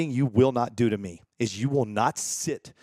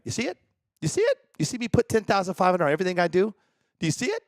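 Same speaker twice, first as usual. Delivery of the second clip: mocking question; 4 semitones higher, faster than usual. Real, not acted. Mocking critics about sponsor price.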